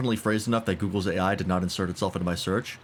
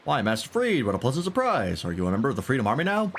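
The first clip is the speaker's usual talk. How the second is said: a hint of a genteel villager, raised; lightly voiced NPC; 4 semitones higher than usual. Reading a villager's greeting to stream, lightly voiced. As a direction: pleasant greeting in a mildly put-on voice.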